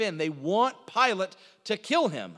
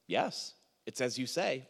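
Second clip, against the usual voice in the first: low, slow, quiet deadpan reply; a little sarcastic; 7 semitones lower, 6 dB quieter than usual. Acted. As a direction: answer softly and slowly, with a touch of irony. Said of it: "is being a little bit sarcastic".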